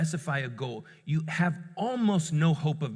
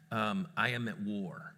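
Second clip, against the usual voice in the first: low, slow and soft; grave declaration; 5 semitones lower, 6 dB quieter than usual. Retold or imitated. Dad declaring war on child's attitude, grave. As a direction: declare it quietly, with measured weight.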